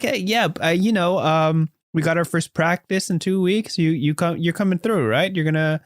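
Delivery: high, eager jock buddy voice; concerned teammate. Acted. Best friend Sterling asks Hal what happened, high worried bro voice.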